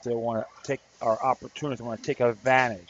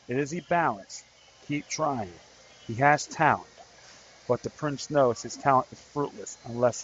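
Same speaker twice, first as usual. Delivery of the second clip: poem reading. Acted.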